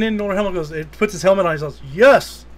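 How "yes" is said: put-on British villain accent. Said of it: "And he's got that fucking accent".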